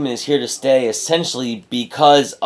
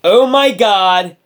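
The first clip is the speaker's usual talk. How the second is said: excited; 7 semitones higher, 6 dB louder, much slower than usual. Retold or imitated. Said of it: "I wrote".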